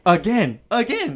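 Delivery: rising squeaky toy voice. Retold or imitated. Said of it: "it would say".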